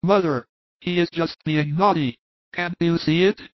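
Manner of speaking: reproachful son. Acted. Son tells his mother the child is naughty, reproachful. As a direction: complain to your mother.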